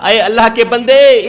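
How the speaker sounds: slow, solemn call from nowhere; unseen voice calling. Acted. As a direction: call out like a hidden voice. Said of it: "غیبی آواز نے مجھے پکار کر کہا". (غیبی آواز کی پکار)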